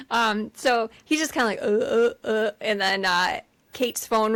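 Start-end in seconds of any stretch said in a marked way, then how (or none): 1.6-2.5 imitated tongue-tied stammer; stuck, repeating a wordless sound; words not coming out. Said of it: "the words aren't coming out".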